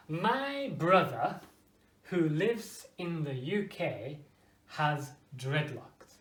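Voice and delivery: slow reading with pauses at each comma. Shown as a demonstration. Teacher reading the example aloud, slow with pauses at each comma. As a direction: pause clearly at both commas for the listener.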